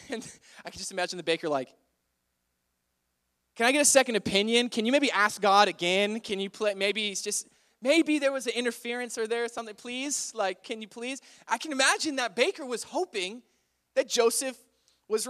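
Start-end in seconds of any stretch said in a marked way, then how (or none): 3.5-11.2 hurried, louder mock begging; desperate pleading. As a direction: plead for a second chance in a rush. Baker begging for another answer.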